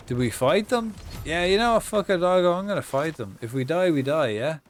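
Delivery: loud and high, all in; hyped battle cry. Real, not acted. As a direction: fire up the team, shouting. Hyped up fighting in game.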